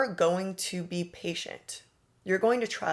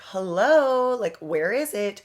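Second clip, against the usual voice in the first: pushy nag; 2 semitones higher, 4 dB louder than usual. Retold or imitated. Someone on her case about the money, mock annoyed. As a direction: play an impatient creditor chasing the deal. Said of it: "on my ass like".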